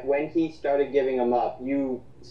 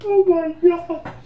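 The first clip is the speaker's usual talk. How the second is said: drawn-out, much higher and louder oh my god; amazed exclamation; 6 dB louder, slower than usual. Real, not acted. Laughing at a friend crying over Danny leaving, slow high exclamation. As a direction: stretch it out in delighted shock. Reacting to a funny memory.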